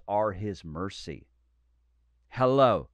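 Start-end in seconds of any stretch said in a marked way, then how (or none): 2.3-2.9 loud call for an amen; emphatic shout. Real, not acted. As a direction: punch it out to the crowd.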